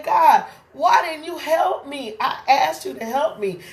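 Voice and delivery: high, aggrieved plea; complaining to God. Retold or imitated. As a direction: reproach God from below. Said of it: "looks at God and say".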